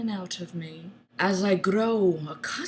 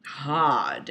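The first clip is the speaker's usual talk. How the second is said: whisper; 10 semitones lower, 6 dB quieter than usual. A narrator's reading. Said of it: "he whispers".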